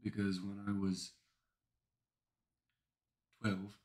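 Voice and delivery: measured British storytelling with long pauses; quiet, halting British reminiscence; British accent. Pretend. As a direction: put on a careful British accent. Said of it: "talk in a British accent".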